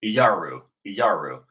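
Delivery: "Iyaru" said as ee-YAR-oo; today's pronunciation. Shown as a demonstration. Teacher shows viewers how it is said today, "Iyaru" as ee-YAR-oo. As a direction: say "Iyaru" in three run-together beats, ee-YAR-oo. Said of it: "how are they pronouncing it today".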